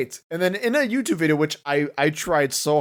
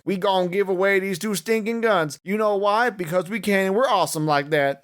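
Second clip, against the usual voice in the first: hammed-up Southern redneck preacher; mock Southern pastor accent, second try; 3 semitones higher than usual. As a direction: lay on a thick hillbilly twang. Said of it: "I gotta get my accent right".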